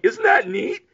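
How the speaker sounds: high, sweetly delighted mother, imitating; mock-chirp it like a charmed mom. Mother delighted by spooky things, mock high cooing. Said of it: "but she's just kinda like".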